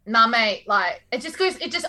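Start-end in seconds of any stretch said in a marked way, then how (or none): 0.1-0.6 a half-hearted stab at broad Aussie Ocker; Ocker accent attempt. Shown as a demonstration. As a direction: try an Ocker Australian accent, not quite landing it. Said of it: "I find Ocker really hard to do".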